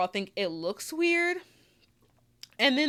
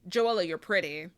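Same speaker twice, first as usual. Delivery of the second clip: 1 quoting Madison; 2 semitones lower than usual. Retold or imitated. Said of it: "to quote T S Madison".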